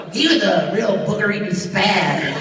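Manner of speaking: loud wet nerdy voice; goofy kid with a wet voice; Ian Wasilewski voice. Acted. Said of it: "Ian Wasilewski".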